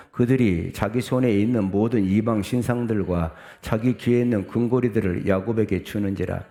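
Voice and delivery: steady, projected reading aloud; scripture reading. Acted. Preacher leads congregation through the verse, reading aloud. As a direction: read the verse out evenly to the congregation.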